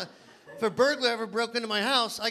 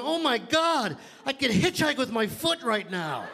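shocked look down; 2 semitones higher than usual. Retold or imitated. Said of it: "I remember looking down going".

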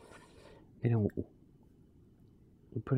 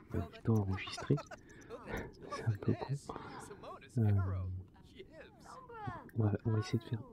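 speaking quietly; 7 dB quieter, faster than usual. Real, not acted. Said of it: "Donc je parle tout bas".

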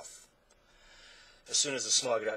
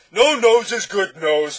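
high, slow booming punchline; thundering roar; 9 semitones higher, 16 dB louder, slower than usual. A narrator's reading. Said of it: "thundered the Din once again".

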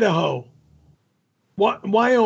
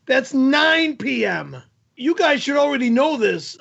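exasperated over-explaining; 2 semitones higher than usual. Real, not acted. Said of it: "I can't spell it out for you".

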